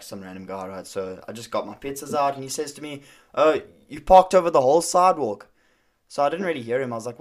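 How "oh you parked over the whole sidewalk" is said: imitating an angry stranger, loud and raised; retold angry complaint. Random guy confronts pizza driver over parking, retold angry complaint. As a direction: call out the accusation in a higher, louder voice. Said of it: "he's angry now".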